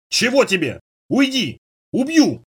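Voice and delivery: sudden high, cracking squeak of a threat; hoarse squeak. Acted. Startled youth squeaks threats at a stranger, high cracked voice. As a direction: squeak it out, voice gone small with fright. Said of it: "внезапно севшим голосом пискнул".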